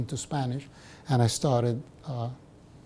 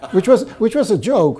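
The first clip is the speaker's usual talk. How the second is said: laughing; 7 semitones higher, 8 dB louder than usual. Real, not acted. Laughs at his own joke.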